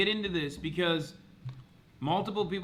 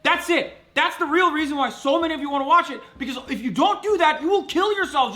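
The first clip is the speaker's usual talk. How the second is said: heated, loud tirade with a higher pitch; real angry outburst at the chat; angry rant; 4 semitones higher, 4 dB louder than usual. Real, not acted. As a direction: rip into the chat, furious.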